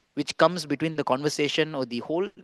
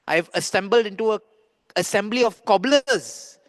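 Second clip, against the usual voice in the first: scornful sage; 5 semitones higher, 3 dB louder than usual. Acted. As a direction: declare it as the sage, stretching the insult. Acted sage repeats his insult.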